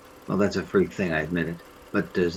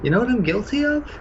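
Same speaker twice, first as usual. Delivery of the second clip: forced laugh; 11 semitones higher than usual. Acted. Accused man laughs off suspicion.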